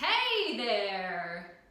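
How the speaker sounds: full, big, loud voice. Leading a voice exercise, repeating the greeting again: big and loud. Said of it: "big and loud".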